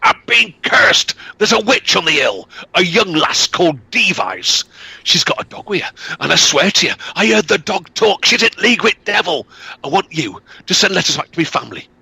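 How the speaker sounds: high panicked shout. Acted. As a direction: shout it like a man terrified. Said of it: "Law shouted".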